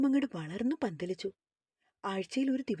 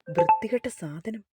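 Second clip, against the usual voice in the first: louder burst of contempt; acted scornful outburst; angry insult; 2 semitones lower, 6 dB louder than usual. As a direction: spit out the insult loudly. Acted boss insulting the woman.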